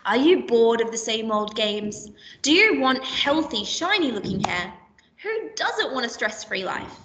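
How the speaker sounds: upbeat advert pitch, each question sold to the listener; mock advert read. Shown as a demonstration. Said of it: "rhetorical question such as".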